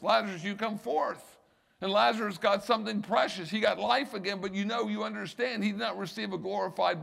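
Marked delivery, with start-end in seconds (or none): 0.0-1.4 higher-pitched summons by name; lightly echoed preacher's command; commanding call. Retold or imitated. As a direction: call him out, voice lifted. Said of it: "he identified who he wanted".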